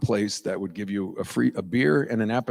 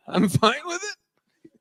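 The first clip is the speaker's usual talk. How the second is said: mock unbothered; much slower than usual. Real, not acted. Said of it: "joking reassurance".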